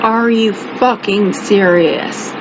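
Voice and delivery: slow, measured incredulous question; deliberate disbelief. Retold or imitated. First question to the man, deliberate disbelief. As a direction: ask it slowly, word by word. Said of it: "First question I asked him".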